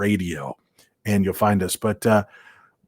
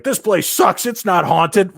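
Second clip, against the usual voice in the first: dismissive; 10 semitones higher, 4 dB louder, slower than usual. Retold or imitated. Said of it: "everybody else is like".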